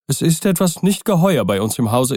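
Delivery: a scared butler blurts out "nicht geheuer"; frightened old servant. Acted. Poole's frightened take.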